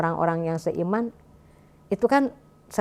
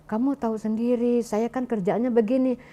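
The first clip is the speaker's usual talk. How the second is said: retold harsh scolding; 3 semitones higher than usual. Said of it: "Maksudnya agak keras gitu kan".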